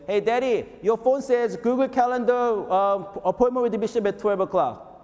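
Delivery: a hint of a child calling out to her dad; daughter's call. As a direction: daughter reading the phone alert to her father, lightly voiced. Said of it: "my daughter says".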